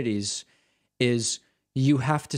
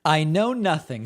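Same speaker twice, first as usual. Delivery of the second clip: mimicked disclaimer, pitched up; mocking echo; 3 semitones higher, 4 dB louder than usual. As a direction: echo it back in mockery. Mockingly echoing the clip's line.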